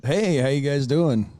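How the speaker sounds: drawn-out radio host greeting; strong radio voice. Real, not acted. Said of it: "that was strong radio voice".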